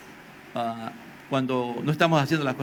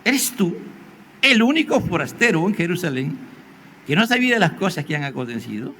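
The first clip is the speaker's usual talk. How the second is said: incredulous question. Acted. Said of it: "Le dijo".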